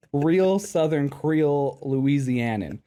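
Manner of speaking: drawn-out mock Louisianan; Louisiana accent. Teasing cohost's chosen sound, mock Louisiana accent. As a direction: stretch it out in Creole Southern style. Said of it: "who chose to sound".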